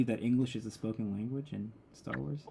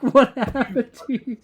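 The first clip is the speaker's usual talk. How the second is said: high, loud, drawn-out incredulous cry; mock disbelief; 9 semitones higher, 8 dB louder, slower than usual. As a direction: act stunned by her sudden change. Mock outrage at Leia's accent.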